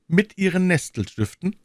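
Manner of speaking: a lightly voiced king, insistent; the king savouring her unease; pressing king. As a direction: lean on verstehen. King questions the queen.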